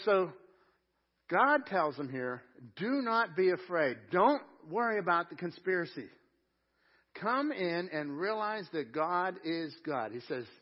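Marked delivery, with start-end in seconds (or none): 2.8-10.1 solemn scripture reading. Acted. God's words quoted from scripture.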